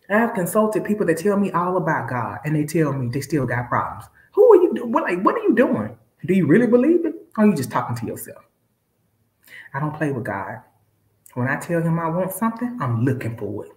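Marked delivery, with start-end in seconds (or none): 4.3-8.4 1 incredulous challenge. Real, not acted. Challenging people who doubt.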